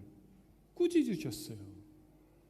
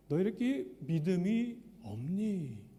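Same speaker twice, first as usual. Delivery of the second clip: gentle rebuke; slower than usual. Shown as a demonstration. Preacher gives Jesus' true words to the disciples, gently. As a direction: ask "너희 이렇게 믿음이 없니?" slowly, as a loving question. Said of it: "이렇게 말씀하시는 장면".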